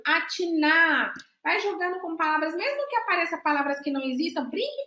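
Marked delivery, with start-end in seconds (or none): 0.1-1.1 "Atinar" said slowly, every syllable clear; drawn-out answer. Shown as a demonstration. Teacher says the reversed word slowly for the class. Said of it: "como é que fica a palavra anta ao contrário".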